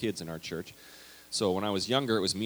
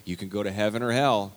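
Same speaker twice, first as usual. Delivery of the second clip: fear-based preacher; 5 dB louder than usual. Retold or imitated. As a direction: thunder it at the kids like a camp preacher. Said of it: "it's like".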